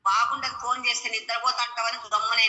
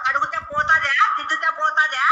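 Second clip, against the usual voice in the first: angry scolding; 3 semitones higher than usual. Real, not acted. Mother scolding daughter over mehndi prank.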